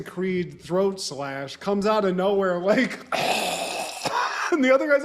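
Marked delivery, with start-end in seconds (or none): 3.0-4.5 high mock choking gasp; imitated dying gasp. Podcaster retelling a surprise throat slash, high mock gasp.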